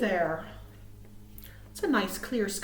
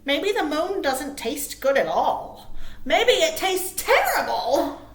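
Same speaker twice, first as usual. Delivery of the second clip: Little Bird; 3 semitones higher, 4 dB louder than usual. Acted. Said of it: "chirped Little Bird".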